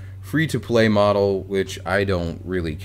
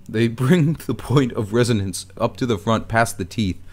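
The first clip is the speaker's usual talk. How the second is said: a hint of British accent, placed forward and higher; British forward resonance; 4 semitones higher than usual. Shown as a demonstration. Explaining British accent resonance to viewers, lightly demonstrated British accent. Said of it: "you get this higher pitch when you talk".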